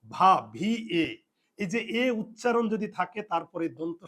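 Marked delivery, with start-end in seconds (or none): 0.1-1.1 "ভা, ভি এ" slowly, each syllable separate; syllable sounded out. Shown as a demonstration. Teacher breaks down the syllable before স, slowly sounded out. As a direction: spell out "ভা, ভি এ" slowly for learners. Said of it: "আমরা পুরো সিলেবলটা সহ উচ্চারণ করব".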